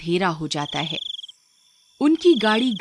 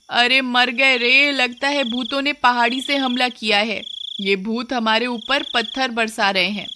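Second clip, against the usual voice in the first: panicked coward; 5 semitones higher than usual. Acted. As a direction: cry out as if ghosts are attacking. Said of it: "असल में तो तू बहुत डरपोक है". (डर से घबराई हुई, ऊँची धीमी कराह)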